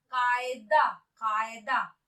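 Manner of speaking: कायदा with a throaty q; deliberate model कायदा, deep-throat k; nukta pronunciation. Shown as a demonstration. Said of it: "क में हमें नुक्ते का उच्चारण".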